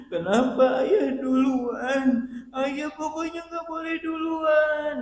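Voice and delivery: high, slow, loud grief-stricken wail; high wailing cry of a widow protesting her husband's death. Acted. Grieving widow voiced wailing.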